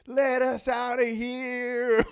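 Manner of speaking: high, slow, drawn-out shout; mock whiny inmate. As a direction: wail like a spoiled inmate. Young inmates complaining on lockdown.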